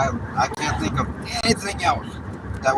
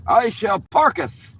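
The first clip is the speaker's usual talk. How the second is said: higher, louder, slow faux-Shakespearean proclamation; mock old English; 9 semitones higher, 7 dB louder, slower than usual. Announcing he will park, in hammed-up olde English. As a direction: declare it like a pompous knight.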